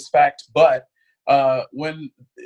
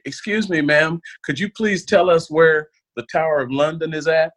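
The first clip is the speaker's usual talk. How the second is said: put-on sweet Texan girl asking directions; mild Texan accent asking a British lady the way; Texan tourist; 4 semitones higher than usual. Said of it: "one of them says to this, uh, British lady".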